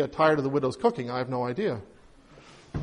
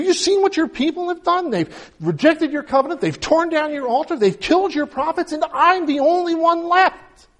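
high, raised and pressing, hurt indignation; upset complaint; 8 semitones higher than usual. Retold or imitated. Elijah protesting to God he alone is left, upset and high. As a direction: protest to God, voice climbing higher. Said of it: "I think Elijah's upset".

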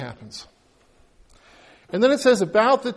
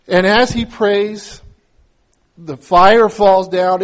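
slow and louder, building to the climax; preacher's slow, louder climax; dramatic proclamation; 7 dB louder, much slower than usual. Acted. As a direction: proclaim it slowly and with force. Climax of the fire story.

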